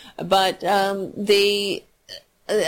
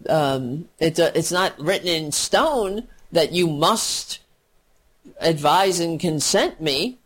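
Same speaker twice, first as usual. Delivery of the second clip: imagined Obama reply. Retold or imitated. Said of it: "Obama should have said was".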